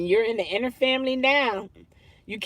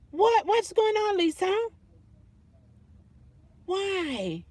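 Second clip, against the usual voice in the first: surprised; 9 semitones higher than usual. Real, not acted. Alarmed by Lisa's comment.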